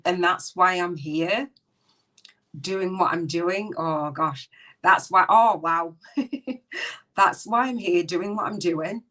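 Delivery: fighting tears as it hits her; tearful, moved. Real, not acted. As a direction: voice catching, on the edge of tears. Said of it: "Gonna cry".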